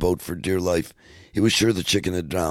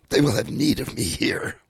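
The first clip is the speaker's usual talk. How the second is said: unvoiced, breathy whispered farewell; hushed whisper; 9 semitones higher than usual. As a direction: whisper it like a grave secret. Old officer's grave parting.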